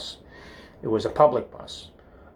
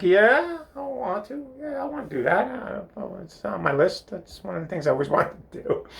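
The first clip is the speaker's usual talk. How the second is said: high-pitched, over-eager yes; hammed-up keen agreement; mock eagerness; 10 semitones higher than usual. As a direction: jump at the offer in a high boyish squeak. Eager boy answers kiss offer.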